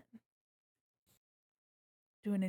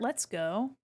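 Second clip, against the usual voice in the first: normal talking voice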